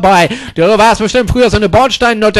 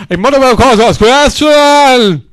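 drawn-out mock voice; 3 semitones higher, slower than usual. Repeated line, second stretched.

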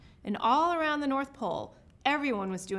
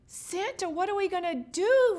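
high, urgent dismay; panic, voice jumping up; alarmed, pitched-up question; gasped alarm; 8 semitones higher, 5 dB louder than usual. A narrator's reading. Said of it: "Rodney gasped".

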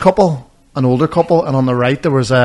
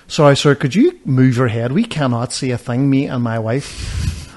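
put-on English accent; slower than usual. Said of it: "English. So I was like".

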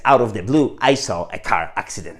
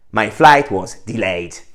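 delayed said slowly and clearly; careful teacher's model; slow model sentence; 4 dB louder, much slower than usual. Shown as a demonstration. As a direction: spell out every word of the example slowly. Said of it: "Bardzo często mylimy te dwa słówka".

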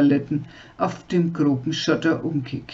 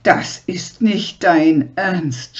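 louder, drawn-out cry after him; slow disbelieving yell; 4 dB louder, slower than usual. Acted. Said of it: "schrie sie ihm hinterher".

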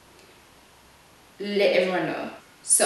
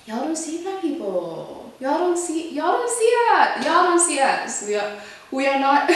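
real, much higher and louder cry of frustration; upset outburst; 8 semitones higher, 5 dB louder than usual. Real, not acted. Telling viewers nobody sees black people, real anguished outburst. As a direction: burst out, pleading and angry.

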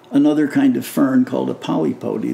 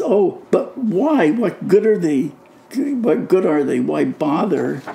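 put-on sceptical kid; 4 semitones higher than usual. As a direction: question the point like an unimpressed kid. Kid's sceptical questions, retold.

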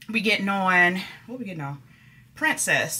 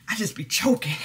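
whisper. Real, not acted. Confiding about choking, whispered.

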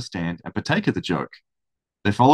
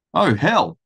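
louder, higher burst of disbelief; scornful exclamation; 5 semitones higher, 4 dB louder than usual. A narrator's reading. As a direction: blurt it out, dismissing the claim. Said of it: "exclaimed Thatcher".

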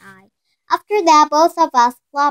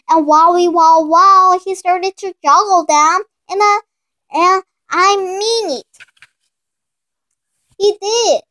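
high, loud wow of wonder; thrilled child watching lemons fly; amazed; 8 semitones higher, 7 dB louder than usual. A narrator's reading. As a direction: cry out in amazement. Amazed at father juggling.

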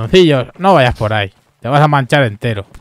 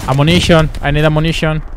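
calling for ammo in English; hammed-up English soldier shout; mock English accent; 4 semitones higher than usual. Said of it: "cómo hablas de raro".

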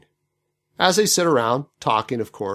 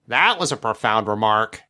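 sarcastic; 5 semitones lower than usual. Retold or imitated. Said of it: "saying sarcastically".

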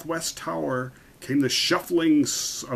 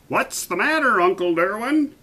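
put-on high-pitched little boy; small boy's voice; 10 semitones higher, 4 dB louder than usual. A narrator's reading. Boy calling up to his uncle the king, small high voice. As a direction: pipe it up high like a child. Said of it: "a small voice came up".

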